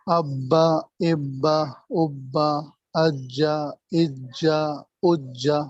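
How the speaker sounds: ابا and اجا chanted one by one with the doubled b and j held; rhythmic qaida chant of ابا and اجا; reciting the qaida drill. Shown as a demonstration. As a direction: drill the syllables like a child reading the qaida. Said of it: "تختی آتی ہے".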